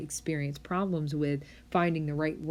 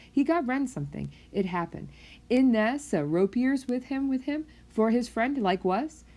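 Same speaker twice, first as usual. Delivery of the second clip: Wernicke's aphasia speech; 3 semitones higher than usual. Shown as a demonstration. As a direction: read it like a fluent patient who makes no sense. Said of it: "reading what a person has said with this kind of aphasia".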